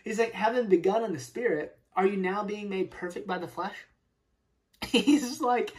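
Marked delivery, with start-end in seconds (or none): 0.3-3.8 sarcastic. Retold or imitated. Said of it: "sarcastic almost".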